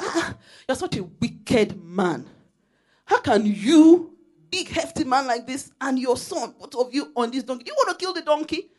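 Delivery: hammed-up scold of a big man riding; scolding villagers. Villagers mocking the father on the donkey, hammed-up scolding.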